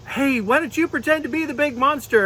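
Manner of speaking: unicorn puppet voice. Pretend. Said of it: "she said".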